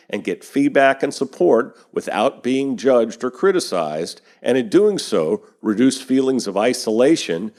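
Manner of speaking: steady, even news-anchor delivery; news read. Acted. Podcast host reading industry news to listeners, news read. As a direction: read the headlines like a podcast newscaster.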